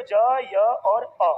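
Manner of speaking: "ज, य और अ" as separate, held sounds; sounding out letters. Shown as a demonstration. Teacher breaking jya apart, "ज, य और अ" each isolated. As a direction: pause between each sound of "ज, य और अ". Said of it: "ज्य बोलते हैं तो".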